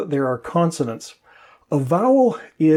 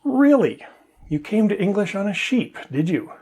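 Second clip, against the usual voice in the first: mock disbelief; 5 semitones higher than usual. Mocking reply to the joke.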